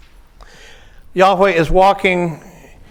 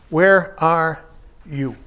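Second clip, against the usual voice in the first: slow, deliberate question; slower than usual. Shown as a demonstration. Intones the question slowly.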